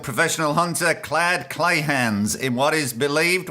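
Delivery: put-on news story in a mistaken Australian accent; botched Australian accent. Podcaster wrongly voicing a South African news story, botched Australian accent. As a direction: attempt an Australian accent for the report. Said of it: "why am I doing Australian?".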